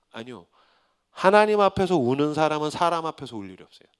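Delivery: ordinary talk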